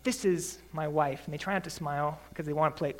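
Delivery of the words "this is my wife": a hint of a newlywed playing it cool; delighted newlywed. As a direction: hold back a smile. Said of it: "they'll be like".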